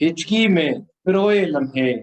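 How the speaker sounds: solemn, measured poem delivery; stately nazm recitation. Acted.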